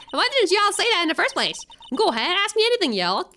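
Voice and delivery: put-on a homey American Southern accent. Country gal greeting the detectives in a Southern accent. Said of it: "accent is completely terrible for this character".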